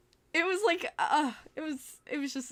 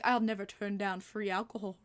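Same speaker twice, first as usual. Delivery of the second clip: put-on British accent, lowered; 4 semitones lower than usual. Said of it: "so the British guy".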